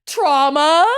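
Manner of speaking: curious pop-in question; chirpy rising trauma; nosy question. Retold or imitated. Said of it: "just goes".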